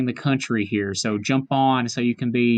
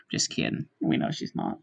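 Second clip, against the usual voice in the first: whispered aside; 11 semitones lower, 7 dB quieter than usual. Real, not acted. Quiet aside after joke.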